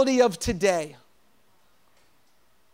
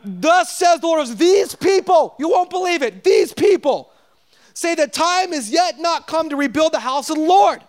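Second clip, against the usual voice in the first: voice of God; 5 semitones higher, 4 dB louder than usual. Acted. Preacher voicing God's disappointment with the Israelites, booming. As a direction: declare it as God disowning the people. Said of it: "So God's like".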